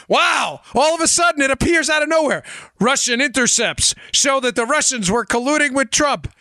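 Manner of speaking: high-pitched sarcastic astonishment; mock amazement. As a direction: feign wonder at an obvious coincidence. Sarcastic feigned amazement at intercepts.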